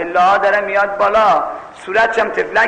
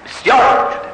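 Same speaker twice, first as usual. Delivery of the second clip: whispered aside; 6 semitones higher than usual. Real, not acted.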